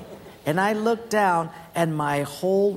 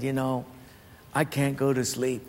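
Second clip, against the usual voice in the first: Mike; 5 semitones lower, 5 dB quieter than usual. Retold or imitated. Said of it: "he said".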